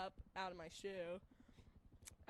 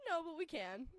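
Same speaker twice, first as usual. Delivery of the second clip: emphatic; 7 semitones higher, 6 dB louder than usual. Retold or imitated. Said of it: "And I'm like".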